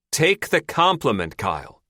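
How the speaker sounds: snapping. A narrator's reading. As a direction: snap at Kyle impatiently. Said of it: "Lou snaps".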